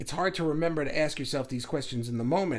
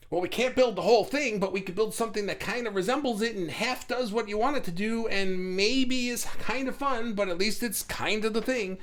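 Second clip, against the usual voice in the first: higher, lightly acted problem-solver voice; makeshift-builder ego; 6 semitones higher than usual. Ego settling for what it can build, lightly voiced tinkerer. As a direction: reason it out in a higher pitch.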